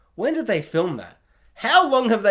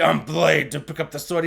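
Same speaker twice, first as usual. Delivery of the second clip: mock hero voice. Mock line Blade never said.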